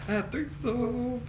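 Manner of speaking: excited. Real, not acted.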